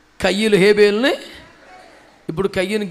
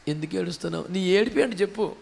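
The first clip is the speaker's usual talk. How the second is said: soft, low question to someone crying; hushed, low inquiry; gentle questioning; 3 semitones lower, 8 dB quieter than usual. Acted. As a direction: ask it quietly, well under the voice. Gently voicing the question to weeper.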